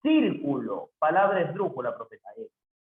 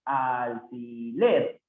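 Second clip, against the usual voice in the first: slow repeat; 3 semitones lower, much slower than usual. Shown as a demonstration. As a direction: repeat alfiler calmly, slowly. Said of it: "Alfiler es una palabra aguda".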